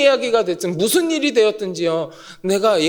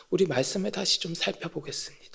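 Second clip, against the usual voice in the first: whisper; 5 semitones lower, 12 dB quieter, faster than usual. Real, not acted. Whispered aside.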